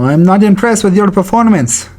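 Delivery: lightly voiced Canadian fighter impression; a hint of mock polite disapproval. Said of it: "we got G S P".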